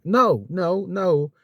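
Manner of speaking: a touch of heated insistence; firm refusal. Retold or imitated. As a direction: refuse the shared plates firmly. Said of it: "I'm like".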